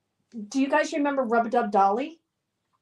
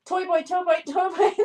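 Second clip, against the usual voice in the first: tongue twister; 5 semitones higher than usual. Pretend. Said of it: "Say toy boat five times fast".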